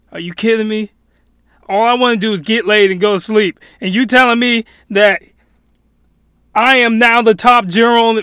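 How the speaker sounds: worked-up, disbelieving rant in character; incredulous protest. Acted. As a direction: protest as if handed an absurd order. Acted character protests to the king.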